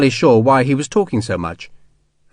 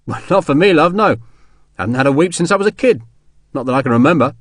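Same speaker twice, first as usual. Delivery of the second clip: easygoing soldier Sharp; 3 semitones higher, faster than usual. Acted. Soldier telling crying woman he never weeps, casual and kindly. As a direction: brush off tears with rough kindness.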